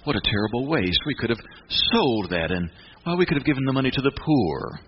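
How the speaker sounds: lightly voiced pious hypocrite, a touch of false concern; mock pious talk. Preacher voicing Judas faking concern for the poor, mock pious. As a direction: put on a holy tone to hide greed. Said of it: "cover that in spiritual talk".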